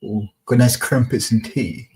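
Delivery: slow, hammed-up posh English accent; a lightly done posh English accent; mock posh London accent. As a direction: put on a posh London accent for a joke, slowly. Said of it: "I can't really do a posh accent".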